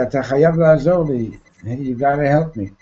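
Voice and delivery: urgent, fast, clutching plea; desperate plea. Retold or imitated. To someone who can save a life, urgently pleading. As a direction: grab the person and beg, rushed. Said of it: "you mamish grab onto".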